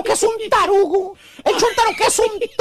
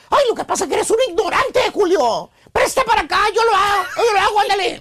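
grudging wife. Retold or imitated. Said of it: "de mala gana te dice".

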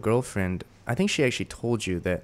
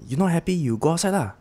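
Singlish line, higher and sing-song; 8 semitones higher, faster than usual. Shown as a demonstration. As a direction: read it the Singlish way. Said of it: "the lines were like".

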